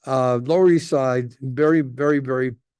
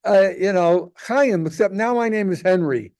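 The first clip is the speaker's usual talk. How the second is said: high, loud mock son calling his mother; son's voice; 7 semitones higher, 4 dB louder than usual. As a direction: ham up the eager son, much higher and louder. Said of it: "comes over and says".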